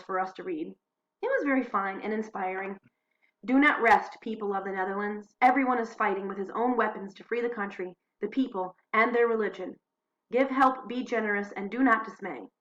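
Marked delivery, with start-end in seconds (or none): 3.4-12.5 preaching from the pulpit. Acted. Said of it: "is what they cry from the pulpit".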